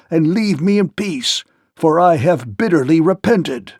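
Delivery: a fat king trembling and pleading; the frightened Gnome King begs the clockwork phantom. Acted.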